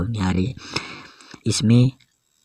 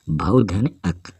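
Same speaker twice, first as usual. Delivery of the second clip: slow split; slower than usual. Shown as a demonstration. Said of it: "भावुक".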